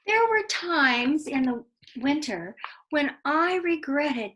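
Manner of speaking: put-on expressive read-aloud to children; lively storyteller voice for kids; story narration. A narrator's reading. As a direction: tell it like a bedtime story, drawing them in.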